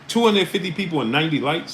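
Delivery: stunned at the numbers, voice jumping up; disbelieving. Real, not acted. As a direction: raise the pitch way up, outraged question. Host repeats like count in disbelief.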